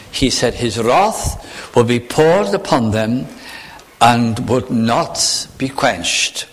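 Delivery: slow, weighty reading of scripture; solemn preacher reading the verse. Acted. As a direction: let each phrase land slowly. Reads scripture slowly in sermon.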